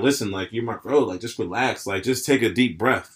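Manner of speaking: chill bro talk. Shown as a demonstration. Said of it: "Them throwing the bro in there".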